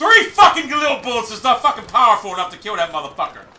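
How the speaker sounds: furious, fed-up, pissed-off angry griping. Mid-match in a shooting game, a player rants, pissed off. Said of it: "So fucking pissed right now".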